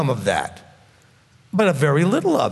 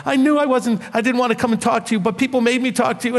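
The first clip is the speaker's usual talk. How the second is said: higher-pitched mimicked crying complaint; mock tearful, hurried self-defence; imitated tearful protest; 5 semitones higher, faster than usual. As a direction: retell her upset excuse in a raised voice. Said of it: "and she started crying, and she was like".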